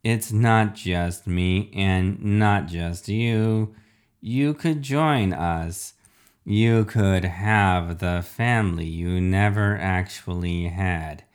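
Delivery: slow, drawn-out villain voice; refrigerator villain. Acted. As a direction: lure them in slowly, as a robot villain.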